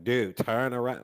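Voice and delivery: loud, slow desperate plea; urgent warning. Retold or imitated. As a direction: beg them to look behind. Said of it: "And just like".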